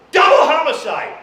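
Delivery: loud high Double homicide!; shouted emphasis. Acted. Stressing Dorothy's crime to the crowd, shouting Double homicide!.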